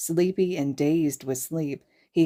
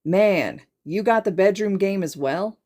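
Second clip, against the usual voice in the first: excited question; 4 semitones higher, 5 dB louder than usual. Acted. Kirishima asks loudly.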